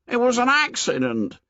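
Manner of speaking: very high insistence; high stubborn Piggy; insistent boy. A narrator's reading. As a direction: repeat it firmly.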